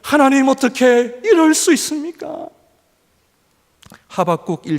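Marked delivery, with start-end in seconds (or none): 0.0-2.5 high, raised voice arguing with God; a prophet demanding answers; prophet protesting. Acted. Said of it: "하박국 선지자는". (하나님께 따지는 선지자의 높은 목소리)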